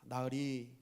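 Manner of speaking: lightly voiced earnest servant; low, measured, deferential reply; servant's answer. Groom correcting his mocking master, lightly voiced and respectful. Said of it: "이렇게 대답을 합니다".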